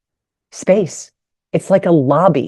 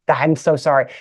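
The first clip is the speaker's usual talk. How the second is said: ordinary delivery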